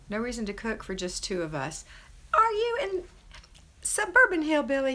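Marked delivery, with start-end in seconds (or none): 2.3-4.9 much higher, louder, delighted disbelief; surprised exclamation. Real, not acted. Host on a live stream startled by where a viewer lives, calling out in delight. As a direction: gasp it out like happy news you can't believe.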